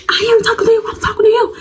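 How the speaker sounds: high laughing challenge; mock yell. Confronting the rival girl in the hallway, high laughing yell. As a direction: shout it back half laughing.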